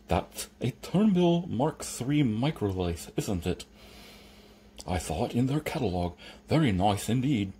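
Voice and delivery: lisping connoisseur servant; admiring Igor. Acted. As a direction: savour it with a lisp.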